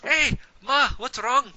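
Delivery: lightly voiced thug checking on his mother; Mickey's voice. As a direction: gang boss greeting his ma. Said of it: "Mickey kinda walks over and goes".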